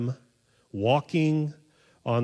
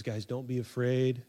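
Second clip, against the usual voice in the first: soft, mild reassurance; gently voiced comfort, softer; lightly acted calming words; 8 dB quieter than usual. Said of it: "He comforts them".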